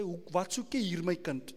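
lightly voiced Afrikaans God, gentle; a hint of a fatherly Afrikaans speaker; South African Afrikaans. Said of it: "if you're from South Africa, God will say".

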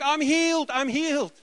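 put-on high, loud cry of joy from the healed boy; excited shout. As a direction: shout it out, overjoyed. Healed boy dancing and crying.

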